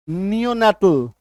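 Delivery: "नियोनाटल" slowly with ee-o audible; vowel demonstration. Shown as a demonstration. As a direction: draw out "नियोनाटल" so both vowels show. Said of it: "ई". ("नियोनाटल" धीरे, ई-ओ साफ़)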